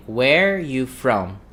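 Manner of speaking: slow, drawn-out "Where you from?" without "are"; "are" omitted, slowly. Shown as a demonstration. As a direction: stretch "where", then go directly to "you from". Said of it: "let's omit the R".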